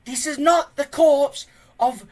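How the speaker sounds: put-on slow, high, loud old man's shout; old man yelling. A narrator's reading. Old Wrinkly yells slowly at the panicking tribe, high and loud. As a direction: bellow it slowly so fools understand. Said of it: "As he yelled".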